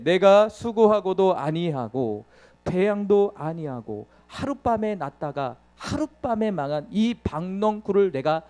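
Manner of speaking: slow, measured Bible reading; slow, deliberate scripture recitation; solemn scripture reading. Acted. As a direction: read God's words slowly and weightily. Reads scripture passage aloud.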